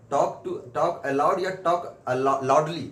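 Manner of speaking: drawn-out, word by word; slow dictation. Shown as a demonstration. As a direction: spell out the options slowly. Teacher dictating options on board. (धीरे-धीरे विकल्प बोलते हुए)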